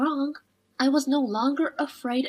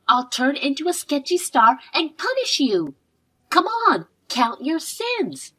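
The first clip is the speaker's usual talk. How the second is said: hero catchphrase; 2 semitones higher than usual. Acted. Child quoting her favourite TV hero at a villain. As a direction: declaim it like a TV hero punishing villains. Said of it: "This is a line from a hero".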